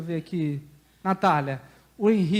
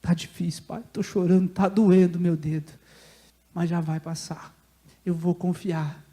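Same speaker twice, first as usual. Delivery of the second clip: lowered, understated confiding to Father; composed trust through tears; 3 semitones lower than usual. Acted. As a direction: bear the hurt calmly and trustingly. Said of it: "olhemos e façamos assim".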